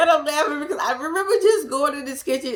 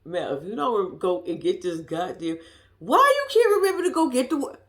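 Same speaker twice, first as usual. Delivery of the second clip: scolding herself; 3 semitones lower than usual. Retold or imitated. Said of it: "this is to myself".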